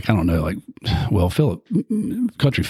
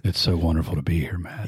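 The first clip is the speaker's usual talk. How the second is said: NPR voice; 5 dB quieter than usual. Pretend. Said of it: "we were doing our best N P R voices".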